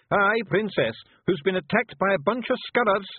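high, rough little Scottish pictie, gently; a tiny Scots warrior breaking bad news; Feegle voice. Rob bluffs.

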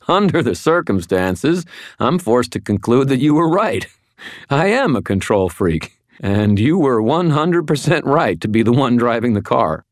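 giddy laughing. Acted. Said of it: "laughing like a drunk".

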